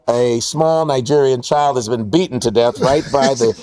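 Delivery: low, slow deadpan supermarket announcement; store announcer. Retold or imitated. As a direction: calmly announce it over the store speakers, pitched low. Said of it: "and they'd be like".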